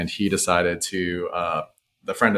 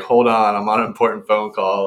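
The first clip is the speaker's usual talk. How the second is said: mock self-important; 2 semitones higher, 4 dB louder than usual. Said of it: "finger right in her face".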